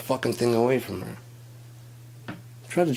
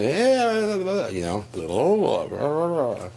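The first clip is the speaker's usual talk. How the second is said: shrieked much higher, louder "yeah"; crazy chick; 9 semitones higher, 4 dB louder, slower than usual. Retold or imitated. Mocking a crazy girlfriend type, squealed much higher. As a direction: squeal it like an unhinged girl. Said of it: "chicks that are fucking a bit crazy".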